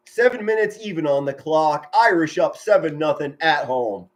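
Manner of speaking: measured football commentary; sportscaster setting up the punt; live play-by-play. Real, not acted. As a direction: call the game for listeners, clearly and steadily.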